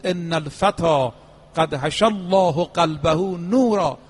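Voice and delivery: slow Arabic quotation at normal volume; measured recitation. Retold or imitated. Preacher repeating the imam's tribute to the youth, slow and restrained. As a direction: repeat it slowly, without raising the voice.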